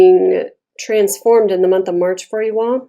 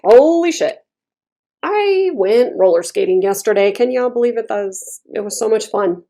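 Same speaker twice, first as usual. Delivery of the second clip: excited. Acted. Telling friends about roller skating yesterday, acted excitement. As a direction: act out gushing about a fun outing. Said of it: "or you wanna sound like this bitch".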